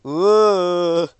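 sudden high whoop of alarm; surprised whoop. Real, not acted. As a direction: yelp it out, caught off guard. Surprised swerve while driving.

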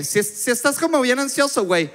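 put-on high Mexican voice; Mexican onlooker. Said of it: "Y ahí mismo la gente como que".

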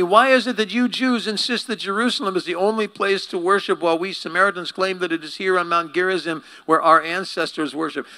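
high, loud flustered deflecting; change the subject fast; defensive woman. Acted. Woman dodges Jesus with religion, high and loud.

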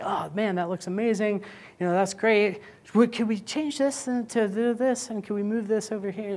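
mock client. Client praising the design then asking for changes, high mock voice. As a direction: gush over the design, then slip in requests.

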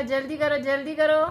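बढ़ती झुँझलाहट, जल्दी करो पर ज़ोर; अधीर होकर बेटी को टोको. Real, not acted. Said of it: "मम्मा को अब गुस्सा आने वाला". (सब्र खोती माँ, बेटी को जल्दी करने को कहती, झुँझलाकर)

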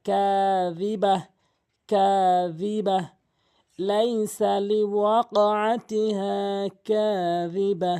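slow chanted tilawat, stopping on কাযিবা; Quran recitation. Shown as a demonstration. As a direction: model the waqf stop, drawn out. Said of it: "এভাবে তেলাওয়াত করবেন".

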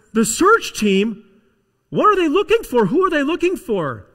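rising into loud, high, urgent questions; alarmed boss. Acted. Boss questioning the child about the search team, alarmed. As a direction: demand to know, increasingly worked up.

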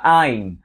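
"I'm" with a full ai glide before the m; American I'm. Shown as a demonstration. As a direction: glide clearly through the i in "I'm". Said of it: "tiếng Mỹ đọc đúng đó".

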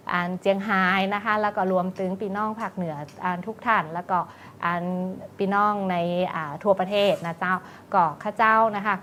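friendly Northern Thai dialect, lilting close to her own voice; Northern Thai greeting. Real, not acted. Guest greeting Chiang Rai listeners in Northern Thai.

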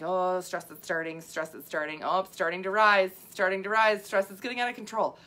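playful rising panic; stressed body. Acted. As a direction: act out stress mounting toward losing control. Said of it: "here's my impression of the body under stress".

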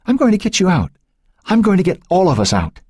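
high, earnest promise; urgent, comforting promise; reassuring. A narrator's reading. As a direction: reassure someone who is terrified. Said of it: "he assured her".

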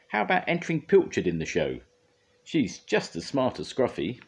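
eager suggestion. A narrator's reading. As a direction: pitch the idea with excitement. Scoop eagerly suggests an idea.

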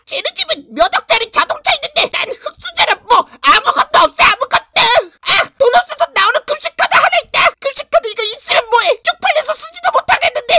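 put-on poor kid yelling about being broke; angry outburst. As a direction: shout out the resentment.

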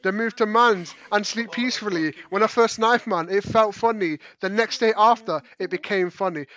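lightly put-on London roadman accent, Ali G style; mock roadman slang. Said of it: "I love it when you said it".

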